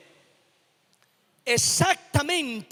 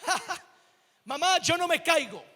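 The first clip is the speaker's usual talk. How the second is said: softer mock laugh, then a cheeky reply; laughing child's retort; 5 dB quieter than usual. Child answers mom's bicycle warning, laughing it off. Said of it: "le respondía a mi mamá riéndome".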